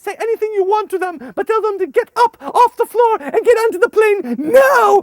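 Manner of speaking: loud high shouted command; exasperated order. Retold or imitated. Leader to translator, loud high shouted order. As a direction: bark the order impatiently. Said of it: "I said".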